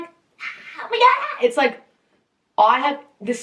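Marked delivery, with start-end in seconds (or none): 0.0-1.5 breathless whispered gasp, then a high "oh my God"; the scream it was not, airy and half-voiced; wrong kind of scream. Shown as a demonstration. Showing which scream it wasn't, airy gasp then high cry. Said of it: "And it's not like".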